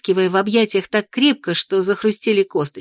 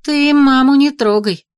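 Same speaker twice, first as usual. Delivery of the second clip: louder, slow warning; threatening; 5 semitones higher, 5 dB louder than usual. Acted. Heroine threatening the dragon over his jab, louder and slow. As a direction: warn him off, leave mom alone. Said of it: "погрозила я".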